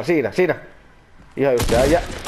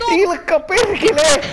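drawn-out, raised-pitch cursing at a teammate; real exasperated yell; 6 semitones higher, slower than usual. Real, not acted. Player cursing at teammate Ilkka, exasperated yell. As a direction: stretch the name and curse out in exasperation. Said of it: "huuatte, kun tiivis siellä".

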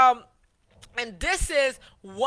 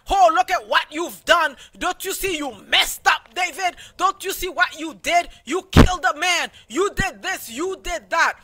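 high, accusing put-down, raised voice; mock preachy scolding, higher and louder; condescending scolding; 4 semitones higher, 4 dB louder than usual. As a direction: talk down to him like a self-righteous accuser. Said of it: "putting them down like".

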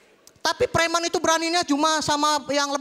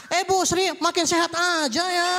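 showy greeting; 2 semitones higher, slower than usual. Retold or imitated. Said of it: "kalau mau ngeluarin kalung gimana".

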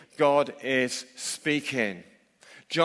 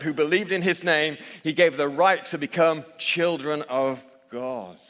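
scripture reading. Acted. Reads John's prologue aloud.

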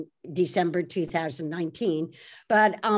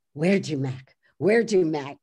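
lower, lightly voiced cabbie imitation; a hint of gruff Oscar in rehearsal; practicing cabbie's voice; 4 semitones lower than usual. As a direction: repeat it to yourself, trying out the voice. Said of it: "Carol Spinney's going".

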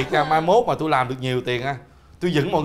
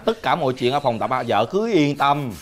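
lower, lightly put-on dubbed-drama voice; film dubbing voice; 3 semitones lower than usual. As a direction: reassure her like a costume-drama husband. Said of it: "Nói giọng bình thường đi". (giọng lồng tiếng phim, trấn an)

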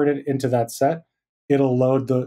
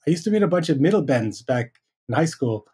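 imitating a New Zealand accent, "middle bends" for metal bands; lightly mock Kiwi accent, a bit higher; 4 semitones higher than usual. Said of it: "in Kiwi accent".

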